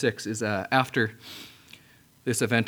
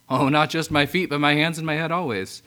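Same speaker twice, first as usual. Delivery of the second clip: eager Peter; 3 semitones higher, 4 dB louder than usual. Retold or imitated. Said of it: "think about Peter with the foot washing".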